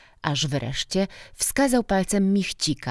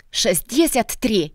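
louder, higher, drawn-out triumphant answer; triumphant call; 7 semitones higher, 5 dB louder, slower than usual. A narrator's reading. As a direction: call it out in triumph, slowly and high. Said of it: "z triumfem zawołał Michcik". (triumfalny okrzyk)

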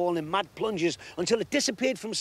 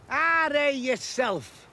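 slow, higher teasing retort; voiced park keeper; 10 semitones higher, 4 dB louder, much slower than usual. A narrator's reading. Park keeper teasing Sim back, slow mock retort. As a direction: drag it out as the grown-up keeper. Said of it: "said the keeper".

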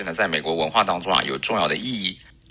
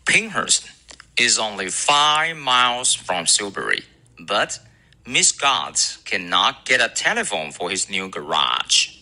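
recitation; slower than usual. Shown as a demonstration. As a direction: recite slowly for students to memorise. Recites the model sentence.

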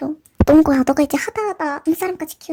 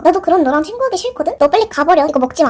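louder, angry send-off; angry dismissal; 3 dB louder than usual. Acted. Shop owner throwing out her traitor friend, louder angry dismissal. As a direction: tell her to get out, fed up.

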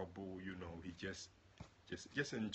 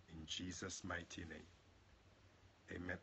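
closing prayer; 2 semitones lower, 6 dB quieter than usual. Acted. Preacher sealing the prayer in Jesus' name, gentle close.

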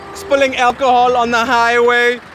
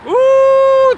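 surprised ooh; 11 semitones higher, 4 dB louder than usual. Real, not acted. Reacting to the runner.

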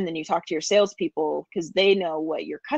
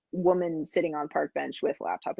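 caveman talk in broken words; Julian Solomita caveman voice; 3 dB quieter than usual. Pretend. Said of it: "my Julian Solomita caveman voice".

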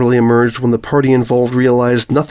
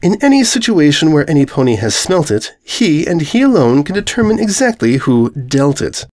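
smug; 4 semitones higher than usual. Acted.

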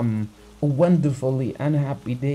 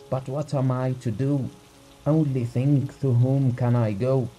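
a terrified husband begging for help; frightened urgency; 3 semitones higher than usual. Acted. Husband begs the doctor to come, frightened and pleading. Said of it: "spoke quickly in a shaking voice".

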